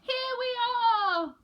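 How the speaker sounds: high, bright reveal; cheerful father penguin. A narrator's reading. Father penguin surprises polar bear, high. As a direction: announce it happily. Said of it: "said Mister Pilchard Brown".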